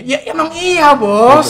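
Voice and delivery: high, pointed "well, obviously"; mock exasperated retort. Speaker answering someone praying to be healed, mock exasperated.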